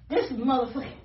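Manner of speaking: breathless and winded; out of breath. Real, not acted. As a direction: say it short of breath. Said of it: "I'm out of breath".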